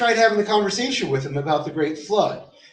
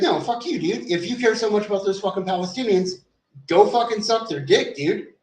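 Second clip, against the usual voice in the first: retold angry comeback; 4 semitones higher than usual. Retold heated argument at mosque.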